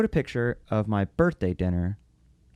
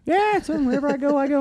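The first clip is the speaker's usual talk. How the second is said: a lightly voiced easygoing dad, higher; imitating dad, casual; 14 semitones higher than usual. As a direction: shrug it off like an old man at peace. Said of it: "I'm like".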